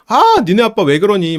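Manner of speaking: fed up with dad's cluelessness; exasperated mom. Retold or imitated. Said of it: "막 이러면서".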